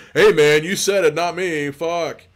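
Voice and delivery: high, loud disclaimer; defensive outburst. Acted. Investigator answering Jake's cannibal question, defensive and high. Guy reacts to horrified Jake.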